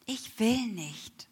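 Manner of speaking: soft, slow whisper of refusal; whispering to God that she won't forgive. Retold or imitated. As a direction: breathe it out, barely voiced. Stubborn refusal to forgive father.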